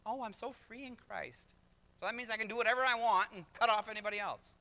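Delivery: mock cutesy. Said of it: "We'll get all cutesy".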